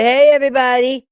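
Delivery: cutesy cat voice greeting viewers; voicing the cat.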